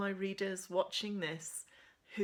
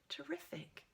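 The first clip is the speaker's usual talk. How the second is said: sarcastic; 8 semitones higher, 9 dB quieter than usual. Acted. Sarcastic inner remark.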